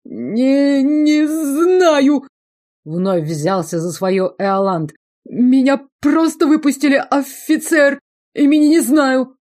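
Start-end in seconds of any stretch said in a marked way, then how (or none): 0.0-2.3 high, loud stammer; panicked squeal; terrified. A narrator's reading. 5.2-9.3 high, loud frightened plea; panicked. A narrator's reading. Panicked prisoner pleads.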